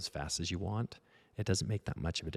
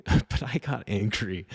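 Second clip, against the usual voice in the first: laughs, then slow and louder; laughing admission; 4 semitones higher, 7 dB louder than usual. Real, not acted. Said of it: "I don't know why I got so angry".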